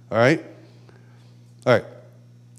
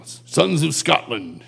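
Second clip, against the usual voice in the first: Braveheart battle cry; much slower than usual. Acted. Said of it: "he's saying".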